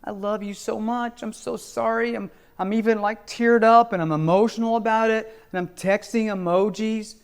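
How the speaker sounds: a lightly mocking, needy lover's voice; mock pleading husband. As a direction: play the clingy husband begging her back. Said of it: "constantly repeating to her".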